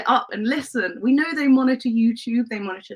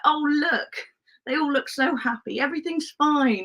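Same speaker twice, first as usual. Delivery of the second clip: higher-pitched, naively contented imitation; mock-sweet and high; mock-happy fan; 5 semitones higher than usual. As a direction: mimic a blissfully satisfied fan. Mocking contented fans in quote.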